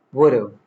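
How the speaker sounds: "would've" squeezed into one word, falling; contracted form. Shown as a demonstration. Teacher showing casual speech, contracted. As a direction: shrink "have" to a weak "uv" in "would've". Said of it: "Reduced in casual speech".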